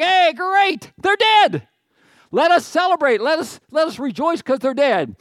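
loud, high-pitched mock cheer; hammed-up, high and loud rejoicing; gleeful celebrating. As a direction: crow it like a jubilant crowd. Crowd celebrating the prophets' deaths.

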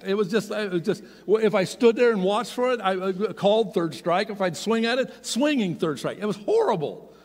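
rising exasperation at a hopeless weekend; exasperated. Real, not acted. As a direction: throw up your hands at the memory. Retelling frustration, raised voice.

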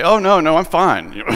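overly quick-to-reassure phone answer; faking wide awake. Acted. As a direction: insist you were not asleep, acting it out. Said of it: "try and make myself sound awake".

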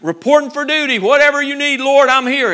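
preacher mimicking Moses eager to serve; eager volunteer. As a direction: report for duty with gusto. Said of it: "short verses ago".

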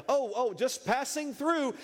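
high, drawn-out innocent act; caught dog playing innocent.

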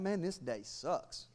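mock grumble. Mock God grumbling about his day.

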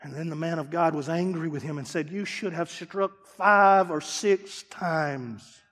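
soft and very slow; slow, hushed words of the man of God; quiet storytelling. A narrator's reading. Preacher retelling the prophet's rebuke, hushed and slow.

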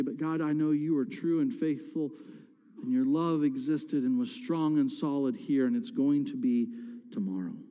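low, settled confession of faith; reassured trust. Acted. Believer telling God he is faithful, calmly. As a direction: drop down into calm assurance. Trusting answer after the protest.

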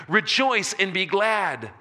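loud, high and slow exultant call; slow joyful proclamation. Retold or imitated. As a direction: stretch out the command to rejoice. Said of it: "No, I'm not kidding you".

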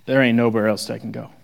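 heartfelt devotion; sincere. Shown as a demonstration. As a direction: say it like a grateful friend who has seen it all. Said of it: "The context is this".

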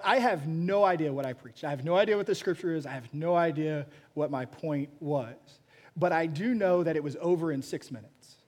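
usual speaking voice

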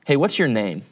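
an even, contained question, lightly voiced; mildly gracious. Alexander, deciding to be gracious, asks the sleeping soldier, mildly gracious. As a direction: ask it calmly, giving a second chance. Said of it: "deciding to be a little bit gracious".

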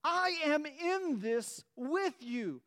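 fervent rallying call; preaching climax. Acted. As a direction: drive it home with passion.

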